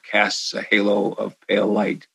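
Boston accent, pale light soft; natural Boston accent drawl. Real, not acted. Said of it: "pardon my Boston accent".

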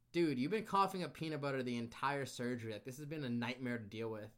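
loud, high exasperated rant; exasperated nurses. Retold or imitated.

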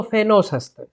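φαινόσασταν said alone with weight; stress on φαινόσασταν. Shown as a demonstration. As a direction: underline φαινόσασταν, pointed. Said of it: "Έμφαση στο".

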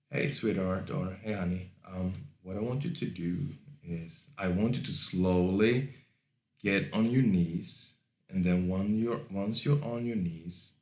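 quiet, unhurried control; hushed, relaxed command fading to almost nothing; soft and slow. Shown as a demonstration. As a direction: give instructions softly, with easy pauses. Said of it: "speak softly and slowly".

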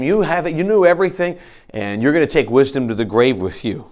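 lightly sarcastic paraphrase of a Bible verse. Acted. Preacher voicing Job's retort to his friends, sarcastic. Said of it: "Job starts with sarcasm".

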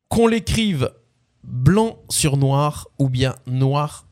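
slow, deliberate spoken lyrics with pauses; lyric recitation. Acted. Quiz host giving players song lyrics, slow recitation. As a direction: recite it like solemn verse, line by line.

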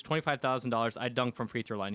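lightly imitated Eastern European accent; a hint of a Slavic accent, articles dropped; Ivan Drago voice. Polish center betting two new players, light Drago-like accent. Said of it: "He's got this Ivan Drago voice".

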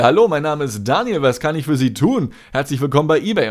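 chirpy call-center greeting; customer service voice. Retold or imitated. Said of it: "so übertrieben freundlich".

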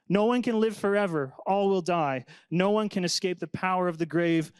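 earnest Bible reading, a touch lifted; scripture reading. Acted. Pastor reads Ethan's psalm to the class, earnestly. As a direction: read the psalm as a heartfelt prayer.

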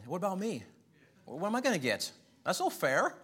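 put-on whiny child. Child complaining to parent.

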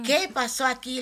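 crying out. Retold or imitated. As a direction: plead with God through tears. (reclamo a Dios llorando, muy agudo)

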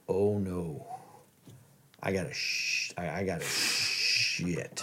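hushed and low, dread creeping in; panicked whisper. Retold or imitated. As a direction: mutter it under your breath like it's an emergency. Panicked retold thought, needing toilet.

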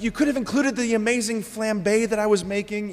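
a saint miffed at her bad press; mock-offended Martha. Preacher voicing Martha griping at Luke about her flambe. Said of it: "she's like".

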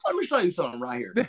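lightly voiced, quick teacher; a touch of a coach showing how; Diana impression. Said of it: "That's my Diana impression".

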